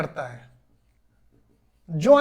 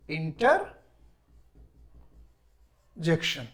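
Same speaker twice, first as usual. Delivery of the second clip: drawn-out term; 5 semitones lower, much slower than usual. Shown as a demonstration. Teacher drawing out new term.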